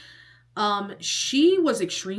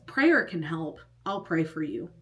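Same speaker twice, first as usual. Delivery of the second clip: genuine, sincere. Retold or imitated. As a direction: offer it simply and in earnest. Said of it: "he said it so genuinely".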